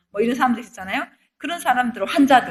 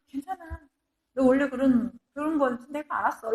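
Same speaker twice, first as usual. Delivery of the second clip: gentle reassurance; 3 dB quieter than usual. Retold or imitated. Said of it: "하나님은".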